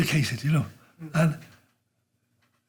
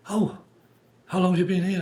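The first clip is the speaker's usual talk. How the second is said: lightly voiced royal, pitched up; a hint of a regal lady's higher voice; the Queen; 5 semitones higher than usual. The Queen asks a Liverpool man she meets, lightly imitated higher voice. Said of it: "that's the Queen".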